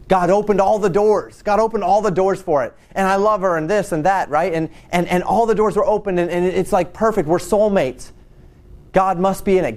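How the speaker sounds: imitating someone excusing an affair; mock excited excuse. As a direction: gush like you've been blessed. Mocking self-justifying adulterer.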